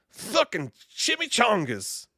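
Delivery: high goofy exclamation; squeaky silly voice. Acted. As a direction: squeak it out like a cartoon. Random high-pitched exclamations.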